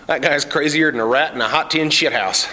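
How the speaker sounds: lightly voiced hillbilly. Cletus voiced in story.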